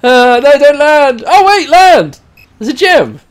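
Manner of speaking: high, loud cries, panic turning to glee; loud high calls during a tense landing; excited shouting. Real, not acted. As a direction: yell at the falling character. Panicked then delighted at game.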